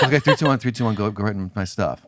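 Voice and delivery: counting down through a laugh; nervous laughing countdown. Retold or imitated. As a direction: giggle the countdown to yourself. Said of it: "I'm like".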